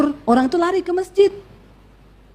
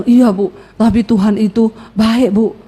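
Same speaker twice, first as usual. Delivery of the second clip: lower, slow, meek reply; humble ex-convict; 5 semitones lower, slower than usual. Acted. Reformed man answers the preacher, lightly acted humble tone. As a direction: answer slowly and respectfully.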